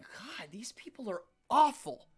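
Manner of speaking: hushed, breathy disgust; appalled aside. Retold or imitated. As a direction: half-whisper it to yourself, appalled. Private horrified reaction in story.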